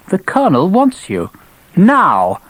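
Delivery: high, clipped officious officer; stiff, self-important lieutenant; stern young officer. Acted. Gibbons insisting.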